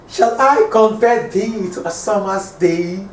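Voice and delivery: measured poem reading in one flowing line; reading verse aloud. Shown as a demonstration. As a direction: read the line of verse through, leaning on the beats. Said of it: "let me read this".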